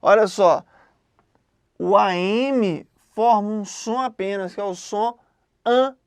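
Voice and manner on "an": AN as a nasal A; nasal vowel. Shown as a demonstration. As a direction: say "an" as one nasal vowel sound. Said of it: "é o A nasal". ("an" com som de A nasal)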